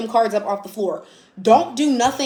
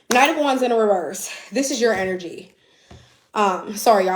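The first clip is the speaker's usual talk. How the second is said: breathless after running upstairs; panting between words; out of breath. Real, not acted. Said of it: "I'm literally out of breath".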